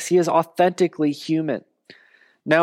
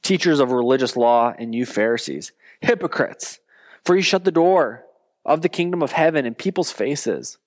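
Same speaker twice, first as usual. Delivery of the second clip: scripture reading. Acted. Pastor reading Jesus's rebuke to the congregation, measured. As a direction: read it out as a stern rebuke.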